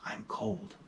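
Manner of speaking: put-on breathy little-girl whisper, no voice at all. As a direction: whisper it close against dad's side. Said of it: "She whispers".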